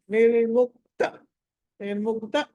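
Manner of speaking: నిర్ముక్త with the last "ta" kept short; final syllable cut short. Shown as a demonstration. Teacher correcting a student, నిర్ముక్త with short final "ta". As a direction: cut the ending of నిర్ముక్త, no lengthening. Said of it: "తా cut చేయాలి".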